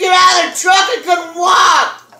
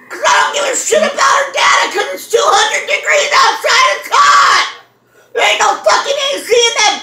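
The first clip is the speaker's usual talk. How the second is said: fast, higher-pitched complaining rant; rising rant; 6 semitones higher, faster than usual. Real, not acted. Complaining to her friend about the heat, a fast, high rant. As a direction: build up the gripe, quick and high.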